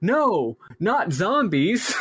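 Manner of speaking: mock dismay. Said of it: "Victor goes".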